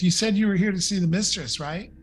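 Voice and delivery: a touch of goblin, speeding through the question. Acted. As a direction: check hurriedly, as a slightly goblin-like servant. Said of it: "he looks at Luciana and goes".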